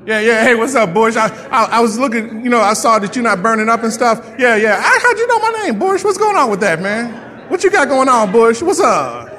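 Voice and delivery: laid-back dude greeting a talking bush, laughing; mock casual guy. You meeting the burning bush, mock casual greeting. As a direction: play it cool and chummy, half laughing. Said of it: "Tell me you're gonna say".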